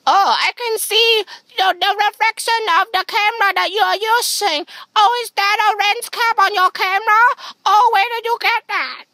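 suddenly thrilled at what he spots; excited surprise. Real, not acted. Spotting the cameraman's lens cap, high and loud.

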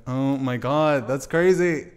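really blown away; amazed. Real, not acted. Amazed reaction to the guess.

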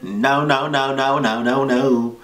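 frantic no. Real, not acted. Refusing the creepy scene.

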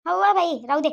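irritated retort. Acted. Mother snaps back at daughter-in-law.

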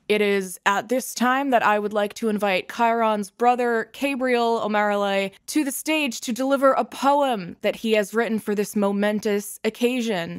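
loud, grand ceremonial address; formal speech. Acted. Guild head honoring the fallen hero, loud and ceremonious. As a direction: read it like a solemn eulogy. Emcee introduces the poet.

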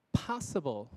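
POSSIBLE stressed on POS, falling; weight on the start of "possible"; first-syllable stress. Shown as a demonstration. Teacher showing word stress, POS stressed in "possible". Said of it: "是第一个重音".

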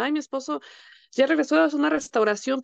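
a lightly hammed-up cry of triumph; triumphant joy. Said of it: "yo cantaba victoria".

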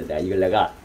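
ordinary delivery

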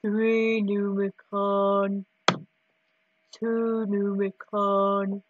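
slow, deep counting voice; low voice. Shown as a demonstration. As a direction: drop low and take it slowly. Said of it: "switching to the low voice".

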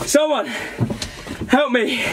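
calling for help. Acted.

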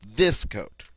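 THIS stressed firmly, coat falling; contrastive stress. Shown as a demonstration. Teacher telling this coat from that coat, stress on THIS. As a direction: lean on THIS to mark the contrast. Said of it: "it's different from that coat".

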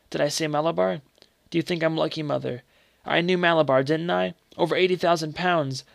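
feverish excitement. Acted. Dying boy tells his mother he won, feverishly excited. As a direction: boast it breathlessly, sick.

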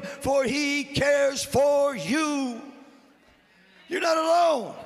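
full-force preaching. Real, not acted. Preacher assures congregation they are never alone, impassioned shouting. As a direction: build and ring out like a revival preacher.

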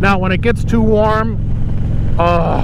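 talking inside a motorcycle helmet; speaking through wind noise while riding. Real, not acted. Riding the bike wearing the helmet.

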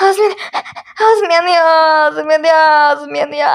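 fading burning mouth whine. Acted. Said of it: "abartmadın mı?".

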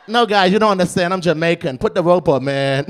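loud desperate pleading. Pretend. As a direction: plead loudly for your life. Pleading at imagined KKK meeting.

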